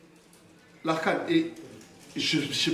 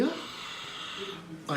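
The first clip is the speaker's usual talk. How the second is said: imitated baby cry; 5 semitones higher, 11 dB quieter than usual. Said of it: "Aylan qui crie".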